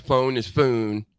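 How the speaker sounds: phone turning into "foon"; second phone said with an oo vowel; Southern "phone". Shown as a demonstration. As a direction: slowly show phone becoming "foon". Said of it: "the Southern people that say phone".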